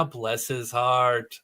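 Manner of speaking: a very slow, drawn-out attempt at a Southern accent; mock Southern "Bless his heart", said slowly. Shown as a demonstration. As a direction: stretch the words out in a half-hearted Southern accent. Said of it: "It's full Southern".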